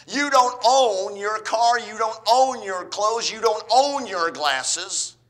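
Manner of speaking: loud, high, slow "You don't own"; emphatic preaching. Real, not acted. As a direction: hammer it home to the congregation. Preacher driving the point home.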